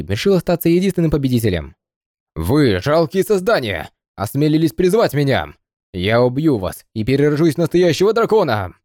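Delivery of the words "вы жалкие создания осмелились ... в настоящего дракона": fire-breathing dragon. Acted. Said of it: "Чёрный Змей яростно взревел".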